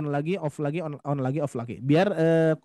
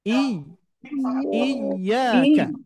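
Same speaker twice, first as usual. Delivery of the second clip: "iyyaka" with a sharp push on the doubled y, a bit louder; nabr on the y; 4 semitones higher, 4 dB louder, much slower than usual. Shown as a demonstration. Teacher drills the stress on the doubled letter for students. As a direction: hit the y of "iyyaka" with a small jolt. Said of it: "memberikan hentakan sedikit".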